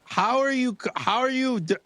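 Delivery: high, laughing disbelief; incredulous and breaking off; flabbergasted. Real, not acted. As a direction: splutter in a high voice, unable to finish. Still reeling from the news.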